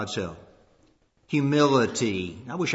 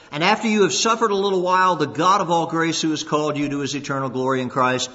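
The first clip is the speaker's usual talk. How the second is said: scripture benediction. Acted.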